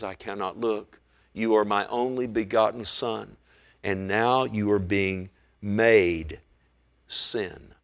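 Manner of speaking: low, slow and solemn; God's grave words. Retold or imitated. God the Father to his Son on the cross, grave. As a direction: pronounce it heavily, with long pauses.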